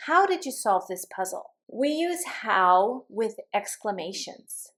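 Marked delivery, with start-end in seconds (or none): 0.1-1.5 HOW raised, then down to PUZZLE; teacher's intonation demo, falling on PUZZLE; falling information question. Shown as a demonstration. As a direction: lead on "How" and drop the pitch by "puzzle". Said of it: "listen for the intonation".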